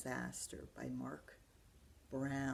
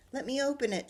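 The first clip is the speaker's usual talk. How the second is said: higher, louder eager shout; 8 semitones higher, 5 dB louder, faster than usual. Acted. Buster fighting Arthur for the chest, shouting. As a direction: grab for it loudly. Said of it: "shouted Buster".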